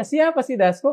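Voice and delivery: sincere, open question; honest question. Shown as a demonstration. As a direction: ask "Siapa sih Dasko?" out of real curiosity. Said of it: "sebuah pertanyaan jujur aja".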